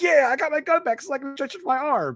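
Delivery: play-acted gleeful, overjoyed gloat, high and happy. Retelling a character getting his gun back, imitating someone happy. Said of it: "so happy to get his gun back".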